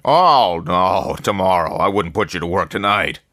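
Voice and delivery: jolly newspaper boss welcoming the new man; effusive editor. A narrator's reading. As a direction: greet him like an old friend with big jolly warmth.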